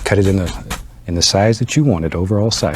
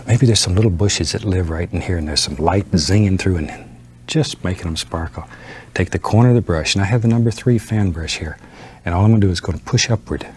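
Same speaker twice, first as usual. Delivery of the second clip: gentle painting instructor. Acted. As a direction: talk calmly as you paint. Soft-spoken painting lesson.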